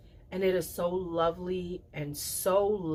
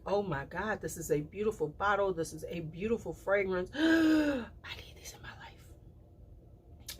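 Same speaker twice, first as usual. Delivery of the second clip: gasping delight; 2 semitones higher, 4 dB quieter than usual. Retold or imitated. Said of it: "because I was like".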